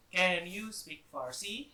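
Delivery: Can said slowly, rising at the end; slow question model. Shown as a demonstration. Teacher slowly models the question to the class. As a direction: spell the question out slowly for students. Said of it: "we place the can in front".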